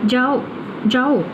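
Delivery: "जाओ" cut off as its own command; pause after जाओ. Shown as a demonstration. Teacher shows what the listener heard, stopping after जाओ. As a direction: say जाओ alone, then stop. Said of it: "comma रुक गई हूँ मैं".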